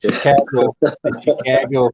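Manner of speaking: imitated Chicago accent, flat A in Chicago; mock Chicago twang. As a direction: say Chicago like a local. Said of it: "slight bit of Chicago, the Chicago type".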